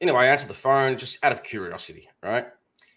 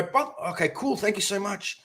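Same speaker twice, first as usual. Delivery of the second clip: feigned excitement; 8 semitones higher than usual. Retold or imitated. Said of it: "I was acting really excited and relieved".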